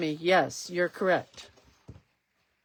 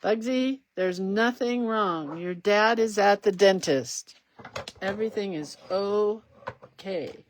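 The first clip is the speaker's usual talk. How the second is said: reassuring; 4 dB louder than usual. Real, not acted. Reassures her dog.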